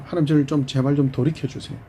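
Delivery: a son crying out to God for help; Ephraim pleading. Acted. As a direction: beg God to turn you back. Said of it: "에브라임이 뭐라고 표현하죠".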